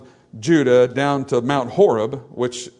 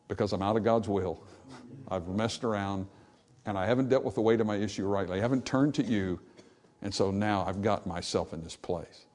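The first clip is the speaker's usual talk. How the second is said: repentant confession; 5 semitones lower, 8 dB quieter than usual. Acted. Imagined repentant answer.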